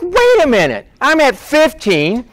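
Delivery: high-pitched, startled protest; indignant objection. Acted. Worker learning a newcomer gets seventeen, indignant. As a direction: jump up in pitch, affronted.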